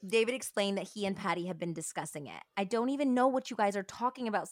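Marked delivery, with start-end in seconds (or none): 2.6-4.5 mild cry out. Retold or imitated. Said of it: "Cinnamon had cried".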